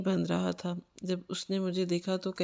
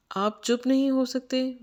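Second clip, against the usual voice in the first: raised, higher, louder plea to stop; exasperated outburst; 6 semitones higher, 5 dB louder than usual. Acted. Frightened traveller to the man scaring her: exasperated, louder outburst. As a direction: snap at him to shut up, fed up and scared.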